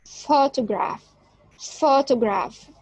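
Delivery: PHOtograph, first syllable strong, the rest falling away; stress on first syllable. Shown as a demonstration. Teacher echoing the recording, photograph with a strong first syllable. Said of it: "we have the first syllable strong, loudly, and big".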